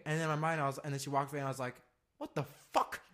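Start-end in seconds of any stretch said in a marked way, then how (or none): 2.2-3.0 high, panicky voice scolding himself; inner panic. Retold or imitated. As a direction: freak out at yourself in your head.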